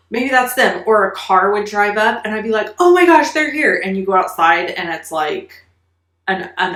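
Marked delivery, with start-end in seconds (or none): 0.1-0.8 sharp gasp, then a high, eager whisper of hope; gasping excitement. Retold or imitated. Child hears sound, gasps. 2.8-3.8 much higher and louder, bursting with joy; thrilled kid. Retold or imitated. Relatives arriving, kid thrilled.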